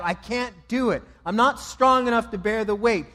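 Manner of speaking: loud, high, anguished pleading; imagined anguished plea, loud and high; desperate crying out. Retold or imitated. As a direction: beg the Father desperately, voice straining. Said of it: "I can imagine him crying out".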